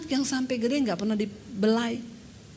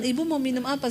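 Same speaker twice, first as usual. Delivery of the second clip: 1 smiling question; 4 dB quieter, faster than usual. Retold or imitated. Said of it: "dengan senyuman".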